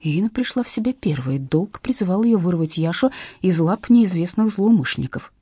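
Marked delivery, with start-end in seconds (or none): none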